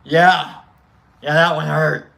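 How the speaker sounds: loud retold answer, emphatic; emphatic reply. Patient tells nurse the needle hurt, loud and emphatic. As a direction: answer loudly, making the point.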